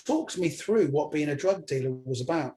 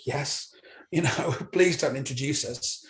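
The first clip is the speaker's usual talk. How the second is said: nervous laughing aside. Retold or imitated. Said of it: "I was thinking it".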